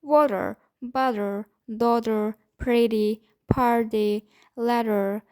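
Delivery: soft D-like T in "water, butter, daughter, pretty, party, letter"; "water, butter, daughter, pretty, party, letter" one by one, each T a soft D; flap T. Shown as a demonstration. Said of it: "we pronounce this T softly".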